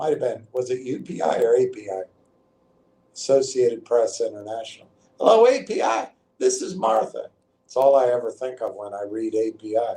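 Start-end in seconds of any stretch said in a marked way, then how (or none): 5.2-7.3 high, pitched-up twangy Texas voice. Act out a comedy team's call to a press service, in Martha's Texas twang. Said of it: "she'd come on with her Texas twang".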